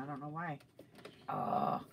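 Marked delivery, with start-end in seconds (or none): 1.3-1.8 low, drawn-out groan; real low "ugh" of exasperation; groan of frustration. Real, not acted. Sewing machine came undone mid-video, frustrated groan.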